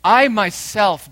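a slow, ringing "I myself"; stress on I myself. Shown as a demonstration. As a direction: punch "I myself" hard. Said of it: "emphatic in Greek".

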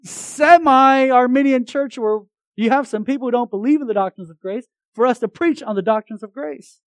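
high, loud, exasperated protest; a preacher mimicking his own frustrated outcry; indignant outburst. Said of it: "I was like".

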